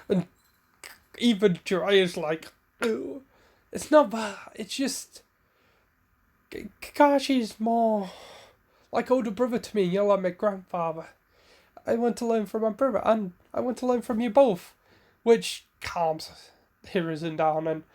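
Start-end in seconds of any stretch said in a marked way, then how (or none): 2.8-14.7 higher, rushed nervous pleading; flustered Jiraiya. Acted. Jiraiya nervously placating the angry Hiruzen, voice pitched up. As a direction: squeak it out, scrambling to calm him.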